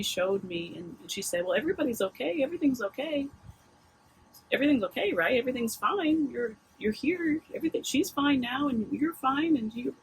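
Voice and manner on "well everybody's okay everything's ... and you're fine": gently reassuring, pitched up, imitating her soothing tone; kind reassurance. Front desk lady calming a frazzled mom, gently reassuring. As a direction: soothe a worried mom, a touch of retold kindness. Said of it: "with the kindness that she spoke to me".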